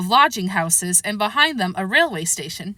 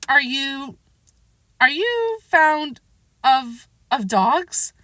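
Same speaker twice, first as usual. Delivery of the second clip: hurried, flustered; 4 semitones higher, much slower than usual. A narrator's reading. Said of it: "in a great hurry to change the subject".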